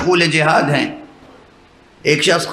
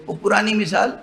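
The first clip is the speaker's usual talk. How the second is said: ordinary talk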